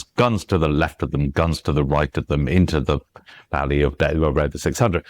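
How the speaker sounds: "Guns to the left" in STRONG-weak-weak beats; march through it, hitting "Guns", "left", "right"; measured recital, front-stressing each group from "Guns to the left"; dactylic verse. Shown as a demonstration. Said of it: "Light Brigade by Alfred Lord Tennyson goes".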